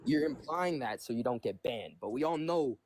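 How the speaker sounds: strained odd voice. Real, not acted. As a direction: squeeze the words out low and tight. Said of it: "Why do you sound like that?".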